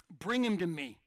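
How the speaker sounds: loud command, falling at the end. Acted. Jesus to the rebuking crowd, loud and commanding. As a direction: take control of the crowd. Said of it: "he just takes control".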